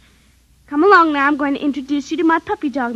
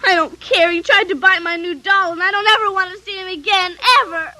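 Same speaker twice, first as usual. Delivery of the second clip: tearful refusal; 3 semitones higher than usual. Acted. Upset girl refuses.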